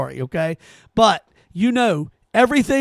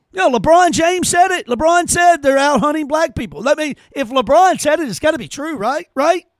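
higher, mock-credulous sarcasm; sarcastic mock belief; 5 semitones higher than usual. Host ridiculing LeBron's claim, mock-credulous sarcasm. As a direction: pretend to believe it, ironic.

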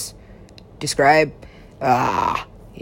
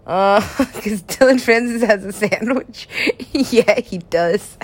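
laughing through the words; deep laughter. Real, not acted. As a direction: break into a real, helpless laugh as you talk. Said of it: "well, that laugh was deep".

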